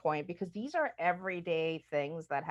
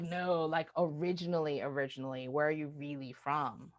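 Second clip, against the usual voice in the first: probing questioner; 3 semitones lower, 4 dB quieter than usual. Retold or imitated. Stranger pressing her about her origins, insistent. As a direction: press the question, lightly voiced. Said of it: "they're like".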